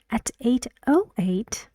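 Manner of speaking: taken aback; surprised. Acted. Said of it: "he is surprised. He says".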